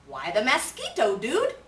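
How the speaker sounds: cheeky little pup question; tiny dog asking. A narrator's reading. Smallest Chihuahua asking about the mask, with a high cheeky dude. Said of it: "asked Poquito Tito".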